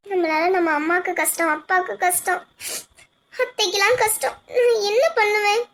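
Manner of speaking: soft, low weeping lament; wife blaming herself in tears; tearful despair. Acted. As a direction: let it fall into a quiet cry.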